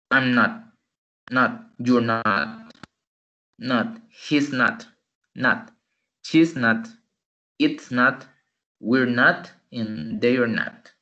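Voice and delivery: clipped, "not" said as "nat"; short contracted answers drill. Shown as a demonstration. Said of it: "de una forma corta". (respuestas cortas, "not" como "nat")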